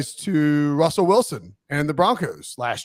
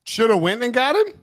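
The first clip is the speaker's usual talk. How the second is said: raised, questioning repeat; puzzled echo; 5 semitones higher than usual. Real, not acted. Co-host checking what the guest said, puzzled echo. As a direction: query it with a lift at the end. Queries the garbled phrase just heard.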